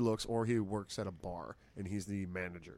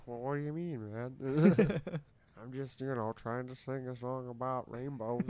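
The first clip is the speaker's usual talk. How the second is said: voicing a singer; 4 semitones higher than usual. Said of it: "And the singer's like".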